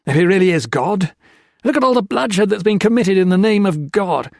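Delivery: loud, high furious tirade; raving at the priest about bloodshed. A narrator's reading. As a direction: hurl every grievance in rage. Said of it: "Peter Marlowe raved".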